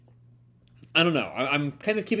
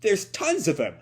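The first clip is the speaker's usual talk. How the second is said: mock panic; 6 semitones higher, 3 dB louder than usual. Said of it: "Happy kind of panics".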